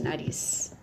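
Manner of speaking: "nariz" whispered, its final S hissed out. Shown as a demonstration. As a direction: stretch the hiss at the end of "nariz". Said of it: "a chiadinha do S".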